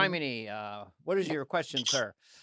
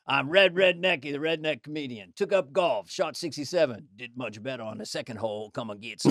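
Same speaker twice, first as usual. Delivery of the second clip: redneck comedian. Acted. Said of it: "Here's a good one".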